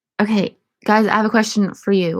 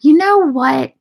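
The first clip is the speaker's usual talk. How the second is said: outburst; 6 semitones higher, 7 dB louder, slower than usual. Real, not acted. Ranting outburst.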